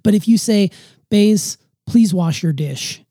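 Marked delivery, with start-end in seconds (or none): 1.1-3.0 slow, firm, measured command; tell, don't ask, slowly; firm instruction. Shown as a demonstration. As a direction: parent setting a clear instruction, firm and slow. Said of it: "I know it sounds firm".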